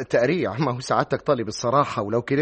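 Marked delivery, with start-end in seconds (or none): 0.0-0.6 nervous laugh. Acted. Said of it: "قلت إيه؟".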